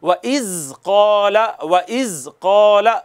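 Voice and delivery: व इज़ कौला slowly, the ज़ soft with no whistle; soft zal demo. Shown as a demonstration. Teacher shows the class a soft unhissed zal, slowly. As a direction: drag out व इज़ कौला and keep the ज़ gentle. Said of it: "देखिएगा".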